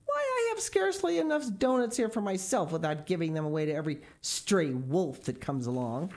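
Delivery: put-on greedy boy brushing off the wolf; selfish boy. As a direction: refuse him as if insulted.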